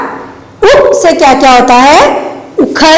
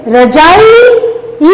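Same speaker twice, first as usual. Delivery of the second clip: रजाई with a pressed, long ई, then ई alone; ई पर ज़ोर; 4 semitones higher, slower than usual. Shown as a demonstration. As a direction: push the long ई at the end of रजाई. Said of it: "pressure दे रहे हैं ना". (रजाई की ई पर पूरा दबाव)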